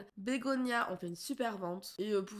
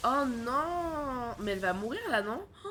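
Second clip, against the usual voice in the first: louder, rising panic over the game; real alarm; 2 semitones higher, 6 dB louder than usual. Real, not acted. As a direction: gasp out a real scare as it goes wrong. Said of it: "ça me fait peur".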